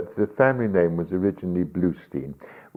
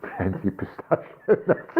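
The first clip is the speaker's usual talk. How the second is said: laughing; slower than usual. Real, not acted. Laughs while listing ingredients.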